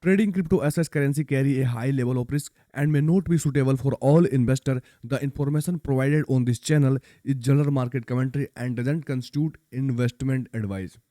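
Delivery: slow, careful English disclaimer reading; legal disclaimer read-out. Shown as a demonstration. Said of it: "यहाँ पर disclaimer पढ़ लो".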